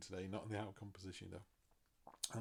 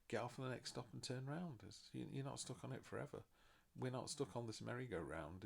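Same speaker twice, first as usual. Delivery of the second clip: normal talking voice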